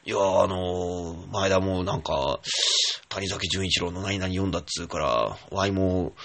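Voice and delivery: a hint of Kansai accent, slow and drawn out; lightly imitating a Kansai friend; faintly Kansai-flavoured retelling of a friend's words; bad Kansai accent. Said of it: "ひどい関西弁でね".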